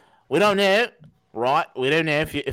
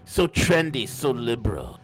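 sarcastic; 4 semitones lower, slower than usual. Pretend. Mocking the bill's supporters.

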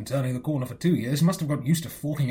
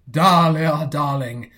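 imitating Uncle Tom; 7 dB louder, much slower than usual. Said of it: "he will come to you and say".

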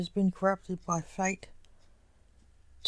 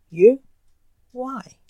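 horrified; 3 semitones higher, 10 dB louder than usual. A narrator's reading. Blake learns the enchanter is the killer, horrified. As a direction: sound mildly aghast, voice lifting in disbelief.

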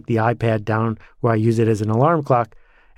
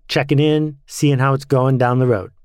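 over CB radio; 2 semitones higher than usual. Pretend. CB radio call sign opening.

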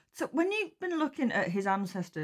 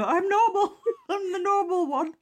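higher, laughing through a proud claim; laughing mock boast; 11 semitones higher, 3 dB louder than usual. Friend mocks the clergyman, laughing as she speaks. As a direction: giggle while playing the proud normal one. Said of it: "carrying the banner for".

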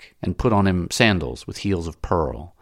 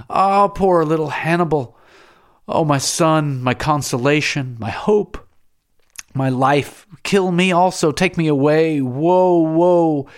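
high, loud wailing grief; piercing lament; 9 semitones higher, 6 dB louder than usual. A narrator's reading. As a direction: wail for the lost son, much higher. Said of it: "uttering piercing cries".

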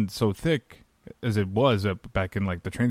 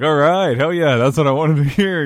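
excited cheer; 5 semitones higher, 7 dB louder than usual. Retold or imitated. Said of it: "I was like".

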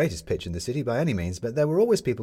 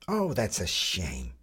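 mouthful of toast; much slower than usual. A narrator's reading. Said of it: "through a mouthful of toast".

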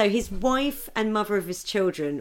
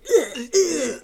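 retold choking groan; 6 semitones higher than usual. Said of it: "he's going".

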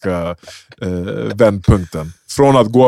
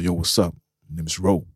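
cool guy voice; 4 semitones lower, 8 dB quieter than usual. Retold or imitated. Promoter voiced in story.

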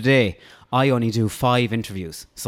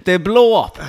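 high, loud laughing punchline; laughing tease; 8 semitones higher, 5 dB louder than usual. Real, not acted. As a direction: let the laugh carry the punchline. Laughing tease about puffed chest.

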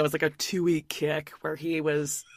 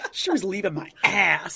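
WAS stressed while laughing. Retold or imitated. Repeating the husband's misstressed tell-all line, laughing. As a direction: push the word was, laughing. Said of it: "The emphasis on the wrong syllable".

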